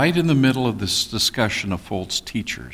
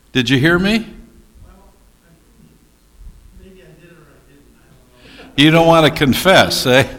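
ribbing the congregation loudly; loud teasing; 6 semitones higher, 9 dB louder than usual. Real, not acted. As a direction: call them out with a grin, loud. Teasing the audience for silence.

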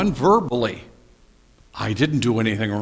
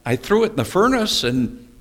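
high, innocent excuse, slowing at the end; Aaron excuses himself to Moses, high and innocent; sheepish Aaron excuse; 7 semitones higher, 5 dB louder than usual. Retold or imitated. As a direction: play dumb about the calf. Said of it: "He says".

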